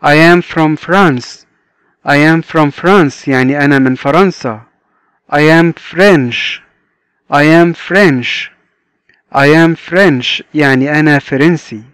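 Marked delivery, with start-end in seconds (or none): 0.0-3.3 very slow, each word stretched apart; very slow model reading. Shown as a demonstration. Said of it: "صديقنا ده بيقول لنا". 5.3-10.4 very slow, each word stretched apart; very slow model reading. Shown as a demonstration. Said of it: "teacher modelling sentence".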